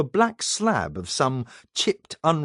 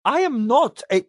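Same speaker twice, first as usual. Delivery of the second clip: gasping in alarm; 9 semitones higher, 4 dB louder than usual. A narrator's reading. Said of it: "he gasped".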